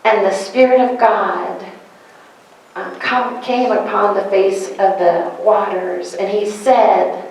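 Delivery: slow solemn Bible reading; scripture reading. Acted. Pastor reading Genesis to the congregation, solemn and slow. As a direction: read it like holy scripture.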